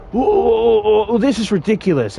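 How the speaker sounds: high-pitched mock indignation; indignant driver protest. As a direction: play the offended driver throwing up his hands.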